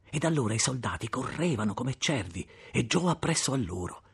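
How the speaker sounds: plain reading voice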